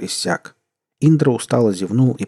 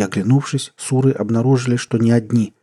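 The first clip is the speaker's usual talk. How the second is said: plain reading voice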